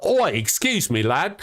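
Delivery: lightly put-on Australian accent; Aussie accent. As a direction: call out in a mock Aussie voice. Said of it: "somebody with an Aussie accent say".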